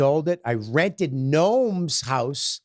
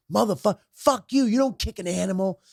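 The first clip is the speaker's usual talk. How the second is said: higher-pitched mock indignation; retold outrage; 5 semitones higher than usual. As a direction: lightly act out scolding a stranger. Retold street quarrel over the dog.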